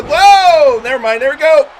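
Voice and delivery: excited ringside play-by-play yell; high, loud hype call of the spot; wrestling commentator. Real, not acted. Big move in a wrestling match.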